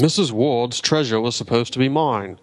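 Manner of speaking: bad Italian accent; hammed-up Italian accent. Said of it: "I was trying to do an Italian accent".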